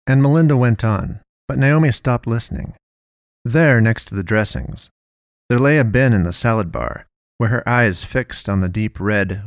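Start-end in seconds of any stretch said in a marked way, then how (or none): none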